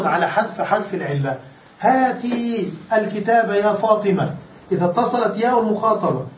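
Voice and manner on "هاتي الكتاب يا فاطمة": slow model example. Shown as a demonstration. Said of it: "أصله هاتي هكذا".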